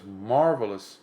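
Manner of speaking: drawn-out sarcastic praise. Real, not acted. Speaker scorning what binging does to the mind, sarcastic. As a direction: say it as mock praise. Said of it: "I'm using it sarcastically".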